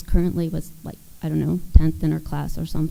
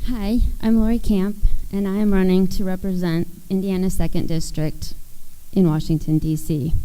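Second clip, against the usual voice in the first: shaky voice. Real, not acted. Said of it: "you hear my voice shaking".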